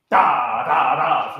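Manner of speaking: every DA hit equally hard; wrong heavy emphasis. Shown as a demonstration. Director mocking how the choir shouldn't sing, evenly pounded syllables. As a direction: pound out each DA with the same weight. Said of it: "we're not singing".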